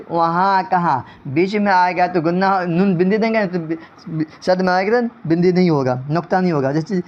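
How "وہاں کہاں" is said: وہاں، کہاں ending in nasal vowels, no hard n; nasalised noon ghunna. Shown as a demonstration. Teacher gives noon ghunna examples, nasalised endings. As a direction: let the endings of وہاں، کہاں go through the nose. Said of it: "نون گنہ جو ناک سے پڑھا جائے".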